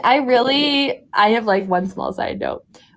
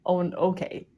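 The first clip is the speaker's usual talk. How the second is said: quiet, uncomfortable begging; quiet, embarrassed mock plea; awkward plea; 4 semitones lower, 9 dB quieter than usual. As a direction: shrink away, softly. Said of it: "I'm like".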